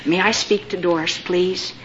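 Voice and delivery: a hint of a man's voice; masculine voice. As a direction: speak low, like a polite male caller. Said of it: "this masculine voice came through and said".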